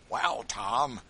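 high, loud slow gloat; slow, loud rough jeer; gloating slave catcher. A narrator's reading. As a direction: crow over the trapped quarry. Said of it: "said one".

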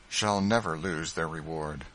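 ordinary delivery, nothing marked

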